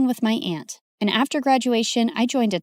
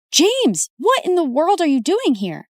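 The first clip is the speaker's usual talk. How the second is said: a startled, high call of the name; shocked cry; 6 semitones higher than usual. Acted. Marina startled as James punches Timmy, crying out high. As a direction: burst out in shock at seeing him.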